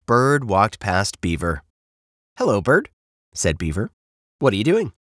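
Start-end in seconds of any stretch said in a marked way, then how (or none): 2.4-2.9 lightly voiced beaver, a little higher; mildly perky beaver hello; friendly beaver. 4.4-4.9 lightly voiced beaver, rising question; mildly perky beaver question; curious beaver.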